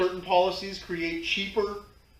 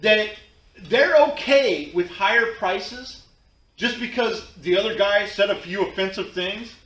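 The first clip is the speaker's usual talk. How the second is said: talking through a sore tooth; speaking around a toothache. Real, not acted. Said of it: "I can barely talk 'cause my tooth hurts".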